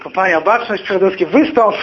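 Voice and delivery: high, loud military order; acted-out commander calling out a soldier; parade-ground command. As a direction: call the company to attention.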